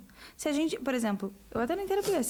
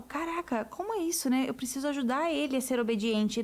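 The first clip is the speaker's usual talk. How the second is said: amazed realization. Retold or imitated. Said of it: "do tipo".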